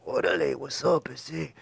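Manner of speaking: softly voiced mock cholo greeting; imitating cholo. Locked-up kids greeting the newcomer, lightly voiced cholo. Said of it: "they're all white T-shirts and khaki pants".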